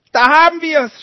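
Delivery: high, loud furious cry; old woman shouting in fury; angry shout. A narrator's reading. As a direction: burst out at them in rage. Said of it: "schrie sie".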